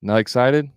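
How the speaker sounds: "excited" tipped up, then left hanging; short mirrored question with a lift on "excited"; rising inflection. Shown as a demonstration. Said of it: "That's it".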